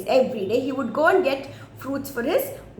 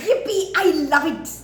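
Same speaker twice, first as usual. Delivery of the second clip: gleeful monkey; 3 semitones higher, 4 dB louder, faster than usual. Acted. Monkey rejoices at invitation.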